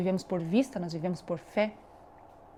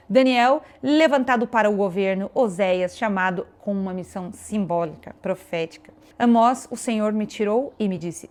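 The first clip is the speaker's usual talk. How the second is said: emphatic preaching; 5 dB louder than usual. Acted. Preacher reciting the prophets God sent, emphatic preaching. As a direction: preach it, punching each prophet's name loudly.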